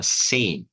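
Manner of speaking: "Same" with long ei vowel; teacher models "Same" as "seim"; pronunciation demo. Shown as a demonstration. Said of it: "vamos lá".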